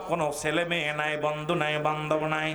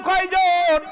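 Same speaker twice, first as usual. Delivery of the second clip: high, loud shouted question; louder crowd prompt; 8 semitones higher, 6 dB louder, much slower than usual. Real, not acted. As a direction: demand a louder answer from the crowd. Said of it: "আরো জোরে বলেন". (আরো জোরে হাঁক)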